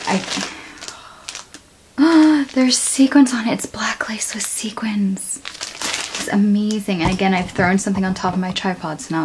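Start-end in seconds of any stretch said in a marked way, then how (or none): 2.0-2.5 higher, louder sharp gasp; excited gasp. Real, not acted. Sees sequins. 3.5-6.3 slow hushed whisper. Real, not acted. Admiring the lace.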